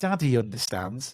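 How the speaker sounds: ordinary talk, nothing marked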